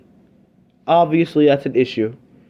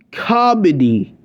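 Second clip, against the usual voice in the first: drawn-out, doubtful "Comedy"; incredulous, slow emphasis; sceptical quote marks; slower than usual. Real, not acted. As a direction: stretch the word slowly as if in quotation marks. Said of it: "I got question marks, quotation marks everywhere".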